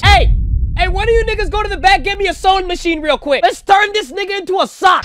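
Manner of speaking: hammed-up outrage at a cartoon; mock outraged yelling. Real, not acted. Streamer yelling at his crew about the frog, hammed-up outrage.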